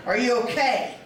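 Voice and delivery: firmer, pressing question; insistent check-in; serious concern. Retold or imitated. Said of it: "No, seriously".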